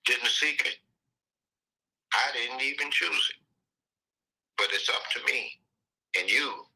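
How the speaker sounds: deliberate lines with long pauses between; slow repeat recitation. Shown as a demonstration. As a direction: recite it phrase by phrase, unhurried. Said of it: "let me say it again".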